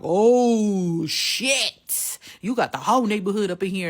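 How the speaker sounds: high, loud startled exclaim; retold surprise. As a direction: react as the crew rolls up. Boyfriend's retold shock.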